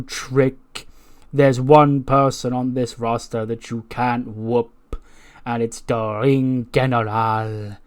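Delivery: slow, drawn-out taunting wrestling promo, lightly voiced; hint of a taunting heel manager's delivery; Ludwig. Ludwig warns Trick about the Ring General, mock-grand taunt. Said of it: "That's when Ludwig walks into frame, and he goes".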